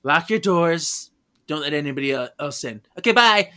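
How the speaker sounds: mock stern witch to the mother; bossy warning. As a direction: bark the instructions and leave. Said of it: "are told".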